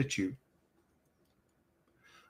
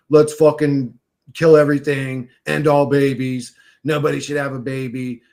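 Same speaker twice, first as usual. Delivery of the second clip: mock demon mode; 6 dB louder than usual. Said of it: "demon mode like everybody else".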